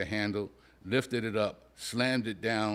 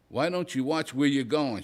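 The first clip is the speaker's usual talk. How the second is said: angry mother yelling; 4 semitones higher than usual. Acted. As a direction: snap at him, mildly raised. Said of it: "she yelled".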